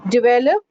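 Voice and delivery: "develop" as di-VEL-up; "develop" with a weak first syllable; correct pronunciation. Shown as a demonstration. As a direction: stress the middle of "develop". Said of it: "not develop".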